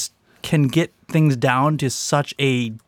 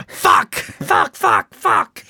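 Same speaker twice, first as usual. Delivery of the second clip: squawking cursing bird; much slower than usual. Pretend. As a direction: screech the curse like a parrot.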